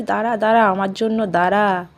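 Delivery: urgent call up the stairs. Real, not acted. Calling Babu on the stairs.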